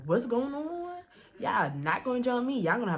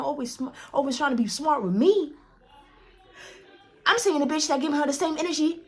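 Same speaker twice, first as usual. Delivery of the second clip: retold disbelief; 5 semitones higher than usual. Her disbelieving inner rant.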